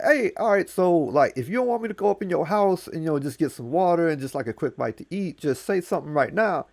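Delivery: high, fast wheedling voice; high trickster pleading to a silent host; Anansi asking. Acted. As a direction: talk the old man into it, quick and cheeky. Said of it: "He's like".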